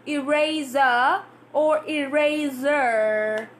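slow "eraser" first plain, then curled r; two eraser endings. Shown as a demonstration. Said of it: "going up".

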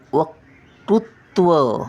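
वक्तृत्व said slowly, syllables split; slow demo. Shown as a demonstration. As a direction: ease through वक्तृत्व piece by piece. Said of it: "क्रूचा पहिला येतो उच्चार". (वक्तृत्व सावकाश उच्चार)

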